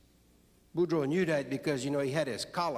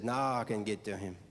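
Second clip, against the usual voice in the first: priest's private thought; 7 semitones lower, 4 dB quieter than usual. Acted. Priest's scheming thought voiced in joke.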